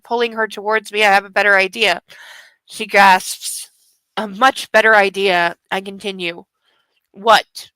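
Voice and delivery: low, measured story reading; novel narration. A narrator's reading. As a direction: read the steamy scene aloud in a low register. Reads romance novel aloud.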